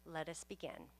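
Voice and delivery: ordinary talk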